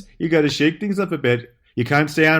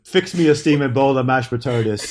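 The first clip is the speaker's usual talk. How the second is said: laughing. Real, not acted. Joke request.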